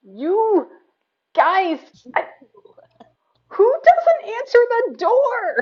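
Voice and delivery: very high, swooping, frazzled, furious wizard voice. Game master voicing the wizard as he points at the party: angry frazzled wizard. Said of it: "other side of this bookcase is the angriest wizard you three have seen all week. He looks frazzled. / And he just points at all of you and goes, / Speaking of the wizard".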